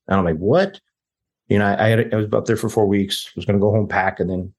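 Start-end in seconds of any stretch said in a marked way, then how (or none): 0.4-0.8 a sudden, much higher, disbelieving What?; shocked what. Retold or imitated. Told to leave in two days, he fires back a shocked high What. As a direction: jump up in pitch like the news just landed.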